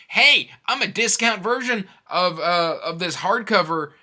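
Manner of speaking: cheeky logo mocking the reader; voicing a smug logo. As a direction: play the brash logo showing off. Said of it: "jumps out at you and goes".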